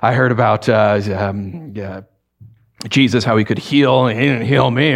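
mild bitter complaining; a touch of sulky grumbling. Retold or imitated. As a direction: gripe it under your breath. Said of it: "going along grumbling".

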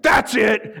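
acted breaking-point exclamation; outburst out loud. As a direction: blurt it out like you've had enough. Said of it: "I said out loud".

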